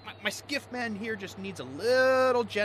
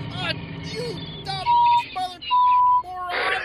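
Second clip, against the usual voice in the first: angry insult; 7 dB louder than usual. Acted. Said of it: "stop yelling at me".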